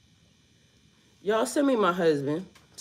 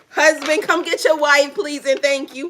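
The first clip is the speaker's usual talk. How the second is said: calling out; 4 semitones higher, 4 dB louder than usual. Pretend. Calling out to the leader.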